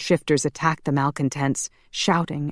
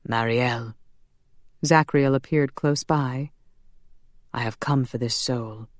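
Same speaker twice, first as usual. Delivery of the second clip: solemn angel; 2 semitones lower than usual. Acted. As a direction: speak gently as a calm angel. Zachriel the angel speaks.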